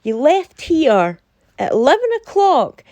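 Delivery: imitating a stern, scolding friend. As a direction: lay it down like a stern mum catching you out late. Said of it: "took a stern voice to me".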